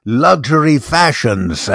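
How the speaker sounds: lightly voiced, slow suave designer; a hint of a smooth Italian fashion man; Giorgio Armani. Imitating the fashion designer pitching his clothes, lightly and slowly. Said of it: "He'd say".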